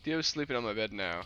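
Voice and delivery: TikTok robot voice reading; flat robot voice read. Shown as a demonstration. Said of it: "I read that like a, like a robot".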